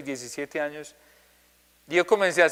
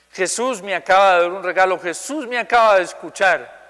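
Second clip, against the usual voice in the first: higher, louder joyful retelling; retold joy; 3 semitones higher, 5 dB louder than usual. Boy telling the preacher after prayer, joyful imitation. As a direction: exclaim it as the overjoyed boy would. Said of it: "Pero una alegría".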